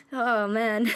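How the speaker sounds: choked-up sigh of a line; overwhelmed, voice catching; teary and breaking; real crying. Real, not acted. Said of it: "I'm crying my eyes out".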